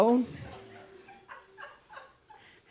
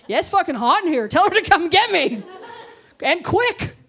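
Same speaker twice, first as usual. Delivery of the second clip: mock panic; 7 semitones higher than usual. Panicked in burning building joke.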